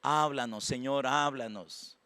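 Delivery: quietly petition God, slowing on the appeals; soft prayer. Retold or imitated. Pastor praying to the Lord for his congregation, soft prayer. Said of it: "oro yo por ustedes todos los días".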